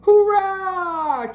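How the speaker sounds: high loud cheer. Acted. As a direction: shout for joy. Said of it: "cheered Splat".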